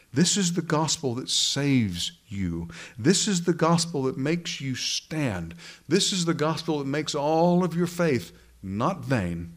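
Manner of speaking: slow, stressing each "This is the gospel"; preaching build. Acted. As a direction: hammer home each "This is the gospel".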